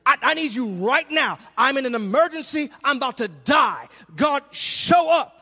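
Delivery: pleading for help, rising to a cry; desperate plea. Acted. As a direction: beg God to show up now. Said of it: "a singer said it best".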